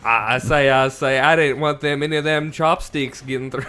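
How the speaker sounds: country Trump. Pretend. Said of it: "This is like a country Trump".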